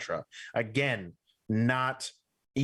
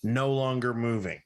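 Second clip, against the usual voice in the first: slow, deliberate combat narration; game master's narration; slower than usual. A narrator's reading. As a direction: draw out the killing blow.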